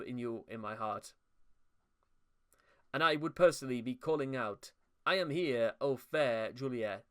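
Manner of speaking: playful put-on Jamaican accent reading bad verse; mock Jamaican accent. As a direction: recite it in a hammed-up Jamaican accent. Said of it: "I've gone Spanish to Jamaican".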